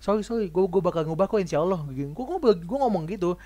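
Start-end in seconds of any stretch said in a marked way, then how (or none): 0.0-1.9 high, bright-voiced easy thanks; a cheerful, breezy okay that lifts high; relaxed acceptance. Telling how he took his friend's criticism, cheerful and high. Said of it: "gue menerima itu dengan santai kayak".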